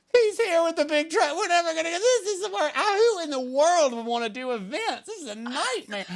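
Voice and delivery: high laughing-crying wail; hysterical crying panic. Retold or imitated. Crying to her team as the truck arrives, high wailing. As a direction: wail it through tears of panic. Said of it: "I'm going".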